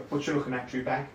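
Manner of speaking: Essex yobbo taunt; sneering East London lad; essex accent. Retold or imitated. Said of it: "when you walk past, you go".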